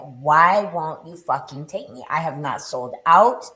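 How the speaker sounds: retold angry rant at God, rising; infuriated rant. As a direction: let the fury climb line by line. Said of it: "so infuriated".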